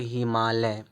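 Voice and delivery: हिमालय with a very short i in the first syllable; short vowel sound. Shown as a demonstration. Teacher showing learners the short sound, short i in हिमालय. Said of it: "एकदम छोटा sound दे रहा है".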